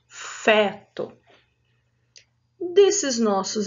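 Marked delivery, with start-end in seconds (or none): 0.1-1.1 Feto with an open é, like fé. Shown as a demonstration. Teacher modelling the open vowel in feto. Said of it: "mas com o som aberto".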